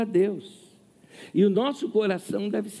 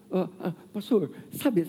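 put-on timid old lady. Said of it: "ela tem bem tímida assim".

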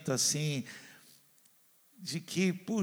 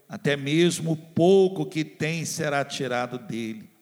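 slow, weighty Bible reading, louder on the judgment; scripture reading; 3 dB louder than usual. Acted. Pastor reading the parable's ending to the congregation, grave. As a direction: proclaim the verses gravely.

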